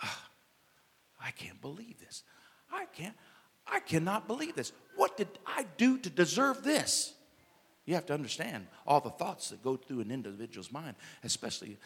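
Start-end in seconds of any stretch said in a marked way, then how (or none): 0.0-7.1 despairing. Acted. Joseph anguished.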